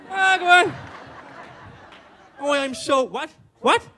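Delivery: put-on frantic, high, loud Irish accent; hammed-up Irish protest, shouted at a high pitch; mock Irish accent. Frightened Brit pretends to be Irish, loud hammed-up accent. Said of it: "I radically change my nationality".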